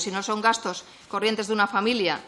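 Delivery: ordinary delivery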